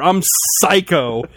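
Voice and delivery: slow, deliberate mock self-introduction. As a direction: draw the name out slowly. Mock toy introducing itself slowly.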